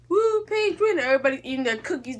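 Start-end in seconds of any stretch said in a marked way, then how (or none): 0.1-1.0 mock cheer. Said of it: "And it's like".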